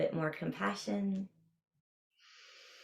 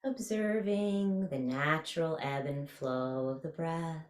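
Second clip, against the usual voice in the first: guided meditation. Real, not acted. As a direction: ease them through a body scan, stretching key words.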